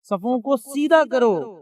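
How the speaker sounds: صفوں کو سیدھا کرو stretched slowly, سیدھا held long; slow, deliberate imam's call to straighten the rows; slow drawn-out command. Retold or imitated. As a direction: call it out slowly like an imam before prayer. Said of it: "تو کہتے کہ".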